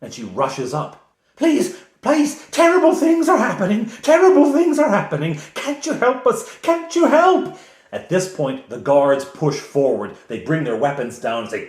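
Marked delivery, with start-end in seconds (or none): 0.0-7.5 put-on very high, loud, panicked old woman; desperate cry. Elderly woman begging the party for help, very high and loud. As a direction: shriek for help in terror. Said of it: "cries out".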